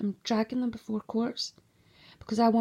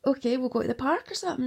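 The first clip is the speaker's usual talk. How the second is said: laughing; 3 semitones higher, 3 dB louder, faster than usual. Retold or imitated. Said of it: "I was laughing".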